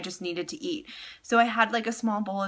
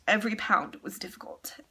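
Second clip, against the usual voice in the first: whisper. Real, not acted. Reliving the weight loss struggle.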